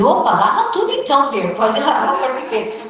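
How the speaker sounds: Peter overdoing it, half laughing; eager Peter. Acted. Peter eager in foot-washing story.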